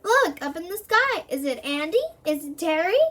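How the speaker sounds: excited onlookers. Acted. Crowd spotting them in sky.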